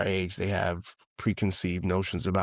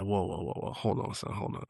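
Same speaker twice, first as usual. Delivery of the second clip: softer, whispered hold on; hushed disbelief; 8 dB quieter than usual. Retold or imitated. Friend stopping the conversation, whispered and hushed. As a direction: drop to a stunned whisper. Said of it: "He was like".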